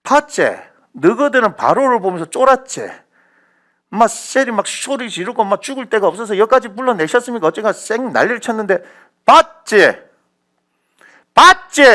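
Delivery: loud, high preaching shout; high, forceful acted taunt; triumphant scolding. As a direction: crow over their panic, peaking on each question. Acts God scolding fearful people, triumphant.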